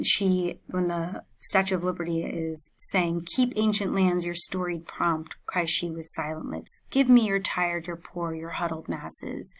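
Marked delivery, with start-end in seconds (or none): 3.3-9.6 a bold poem reading that fades to a hush on the last phrase; strong, empowered reading. Shown as a demonstration. Teacher demos an empowered reading of the poem. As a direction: read it as Liberty calling out, strong and proud. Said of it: "If you're reading this, you feel strong, you feel empowered".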